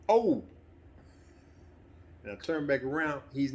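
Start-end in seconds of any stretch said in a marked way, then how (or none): 0.1-0.4 sudden high loud "Oh!"; retold yelp. Son retelling his dad's fall, a sudden high yelp. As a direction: yelp the way dad did when falling.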